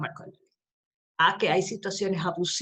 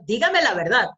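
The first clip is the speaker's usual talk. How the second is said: a firm, louder demand for the truth; tono firme; 6 dB louder than usual. Retold or imitated. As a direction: press the witness, a touch louder. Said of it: "Con un tono firme". (exigencia firme y más fuerte)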